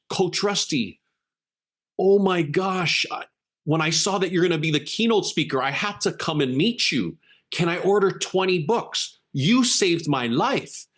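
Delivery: high, overwhelmed lady meeting her hero; imitated starstruck older lady; gushing fan. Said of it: "she literally does this".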